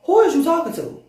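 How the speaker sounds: high-pitched affronted demand; indignant. Acted. Pissed-off being answering the god sister, indignant. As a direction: challenge her with offended attitude.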